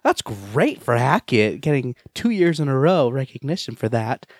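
overdone praise after being teased; enthused rephrase. Shown as a demonstration. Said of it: "Let me, let me rephrase that".

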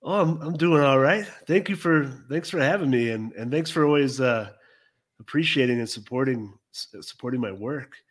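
stuffy, congested nose voice; talking through a head cold with a blocked nose. Real, not acted. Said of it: "sound like, uh, John C. Reilly with a clothespin on my nose".

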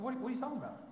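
high, startled what-are-you-talking-about; stunned son hearing bad news; shocked disbelief. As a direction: blurt it out in disbelief. Shocked reply to mom's news.

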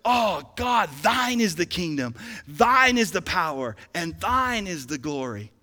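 worshipful awe, leaning on each "thine"; reverent awe. Acted. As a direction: marvel at God, falling away at each phrase end. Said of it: "a sense of awe".

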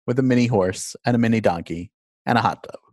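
measured host's intro read, lively pitch at phrase starts; scripted podcast narration. Acted. Host introduces listeners to a call with Arnold Schwarzenegger, scripted narration.

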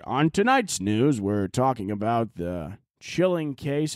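slow, a touch of a news anchor read; mock news anchor. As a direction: lightly play the bird reading the news. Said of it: "you just hear your bird".

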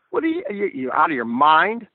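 mock disbelief at a crazy gesture; a retold rival's stunned "are you out of your mind"; incredulous retort. Rival's reaction to telegram returned.

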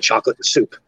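Canadian accent swallowing the vowel in "and". Shown as a demonstration. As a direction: say "and" reduced to a quick 'n', Canadian style. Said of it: "in my Canadian accent".

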